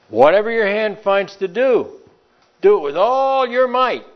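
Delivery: high, loud preacher's exhortation; preaching at full force. Acted. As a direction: drive it home to the congregation.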